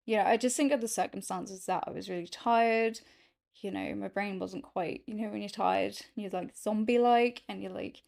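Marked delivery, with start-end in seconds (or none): none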